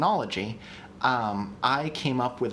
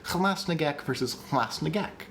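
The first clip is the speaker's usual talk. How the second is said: Hamas Nagek said twice, higher first, contrasting the breaks; contrasted syllable breaks; 3 semitones higher than usual. Shown as a demonstration. Host hearing the difference, contrasting two versions of Hamas Nagek. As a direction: set one Hamas Nagek against the other. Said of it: "Now I can hear it".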